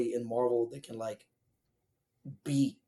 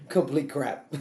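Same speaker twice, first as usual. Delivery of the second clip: slow words through real laughter; laughing; slower than usual. Real, not acted. Co-host trashing an awful sequel, laughing. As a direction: laugh while dismissing it, drawn out.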